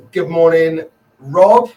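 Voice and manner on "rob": Rob called out high and loud; calling out a viewer's name on the live stream; loud cheery call-out. Real, not acted. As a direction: belt the name out like a happy greeting.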